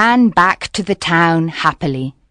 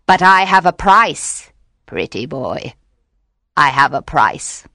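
loud, scheming witch; 4 semitones higher, 5 dB louder than usual. Acted. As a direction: tempt him like a sly witch. Witch bargains with fisherman.

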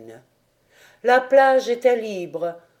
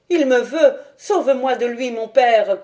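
louder, frantic cry for help; terrified cry; 3 semitones higher, 4 dB louder than usual. Acted. Dahu begs her father to save her, loud and frantic. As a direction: cry out to father, pursued by the sea. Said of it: "criait Dahu".

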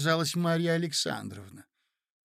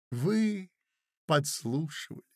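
reproachful. Acted. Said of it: "укоризненно глядя ему в лицо".

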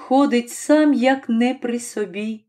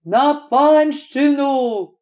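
calling out; 2 semitones higher, much slower than usual. A narrator's reading. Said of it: "крикнув десятник на весь голос".

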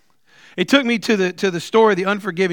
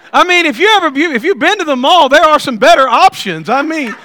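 raised, louder amused rant; excited, higher; 8 semitones higher, 6 dB louder than usual. Real, not acted. Preacher ribbing the crowd about the mall, excited and higher. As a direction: pitch it up and let the laughter build.

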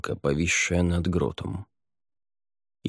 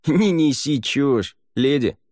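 slow, louder dismissive scoff; snorting scoff; 8 semitones higher, 4 dB louder, slower than usual. A narrator's reading. Livr to the lady, slow scoffing snort. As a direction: brush her off with a snort. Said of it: "фыркнул Ливр".

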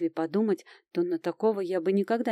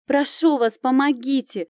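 high, loud, pleading cry for help; begging plea; 6 semitones higher, 6 dB louder than usual. A narrator's reading. Girl begging the knights for help, loud plea. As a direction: beg the knights desperately. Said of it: "взмолилась я".

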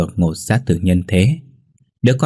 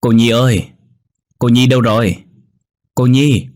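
higher, louder urgent calling; 4 semitones higher, 3 dB louder than usual. A narrator's reading. Neighbour calling Nhi urgently, loud and higher. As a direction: call her name from outside. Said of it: "chạy sang gọi".

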